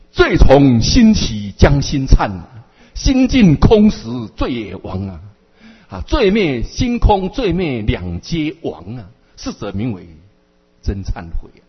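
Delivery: slow, chanted verse recitation; solemn chanted teaching verse; recited verse. Acted. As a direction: intone each line slowly like a gatha. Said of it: "佛陀就开示了".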